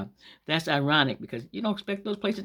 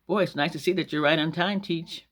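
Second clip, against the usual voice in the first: mock-pleased student greeting; sarcastic; 3 semitones higher than usual. Students greet their late teacher, sarcastic. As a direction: feign delight with a dig underneath. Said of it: "being sarcastic is saying things".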